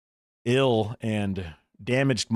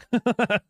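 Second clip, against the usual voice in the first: high short laugh; 13 semitones higher than usual. Real, not acted. Laughs at own remark.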